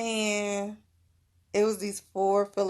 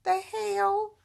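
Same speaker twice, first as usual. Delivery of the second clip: higher and louder, half-laughing disbelief; mock exasperated self-quote; baffled at own tears; 9 semitones higher, 6 dB louder than usual. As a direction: retell her own puzzled outburst, rising to a squeak. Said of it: "I'm like".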